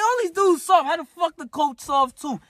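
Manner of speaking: mock outraged. Retelling his rage at the coach, high outraged squeal. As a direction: squeal it in disbelief.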